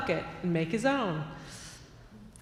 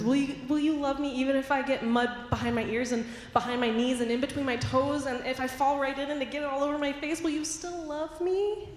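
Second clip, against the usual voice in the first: put-on pleading child; 4 semitones higher than usual. Boy pushing father's patience.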